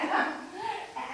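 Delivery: short acted giggle; unhinged little laugh. Shopper after hitting the man, small unhinged laugh. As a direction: let out a small crazed laugh.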